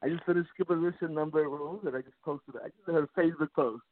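muffled phone voice. Real, not acted. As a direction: sound muffled, like through a covered phone. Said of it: "You're muffled a little bit more".

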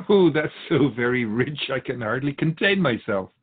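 drip with sarcasm, laughing at it; sarcastic. Real, not acted. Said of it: "What's that sarcasm about".

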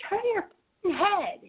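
high, slow mock yell; imitating a scream. Woman screaming at the driver, a high slow mock yell. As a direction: spit it out like an angry stranger. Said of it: "just screamed at me".

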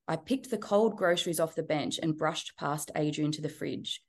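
steady storytelling read from her own book; reading the chapter aloud, evenly paced; memoir reading. A narrator's reading. Author reading her abuse memoir excerpt to the host, as story narration.

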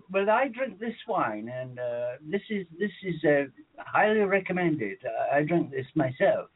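mock English shop-assistant accent. Caller retelling the Tesco guy's wine advice, put-on English accent. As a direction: imitate an Englishman giving his recommendation. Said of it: "he started speaking in this English accent".

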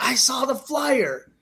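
high, slow imitation of a young son; insistent little kid. Son telling dad how he knows, insistent little kid.

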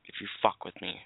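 slow, breathy whisper through the anger; a furious man whispering to himself; seething whisper. Real, not acted. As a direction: hiss it under your breath, barely holding it in. Seething, under his breath.

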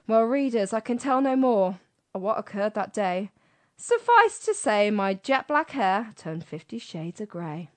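lightly performed comic verse, timed for laughs; a presenter reads out a comic poem on air; comic poem reading. Acted. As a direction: read a cheeky poem to a radio audience.

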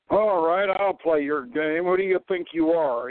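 sneering official asking who he is; condescending. Acted. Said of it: "he asked condescendingly".

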